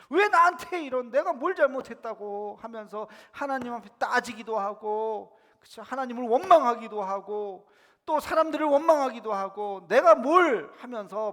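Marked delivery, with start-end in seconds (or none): 0.1-2.6 louder, higher mock protest. Acted complaint to God in hardship. 9.9-10.7 loud, high acted protest; 억울한 항변. Acted resentful complaint.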